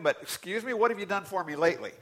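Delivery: a lightly voiced, quick demand to God; a hint of an ungrateful believer talking back to God; mock ungrateful believer. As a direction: rush the demand like a spoiled kid. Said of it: "God, that you did a miracle".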